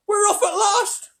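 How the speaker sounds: very high, slow cheer with a laugh. Acted. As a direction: laugh it out in triumph. Creatures cheer the departure.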